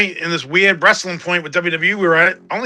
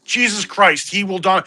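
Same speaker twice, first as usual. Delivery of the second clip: higher and very slow mock-grand voice; mock epic hype; 4 semitones higher, much slower than usual. Mocking the big man's ring strut, slow and grandiose. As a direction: stretch it out like a pompous trailer. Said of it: "I'm like".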